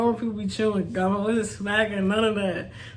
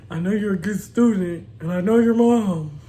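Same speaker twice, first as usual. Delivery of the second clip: lightly voiced teacher with a laugh breaking in; a hint of the kind teacher, giggling by the end; amused, half-laughing teacher line; 4 dB louder than usual. Teacher voiced, she cracks up.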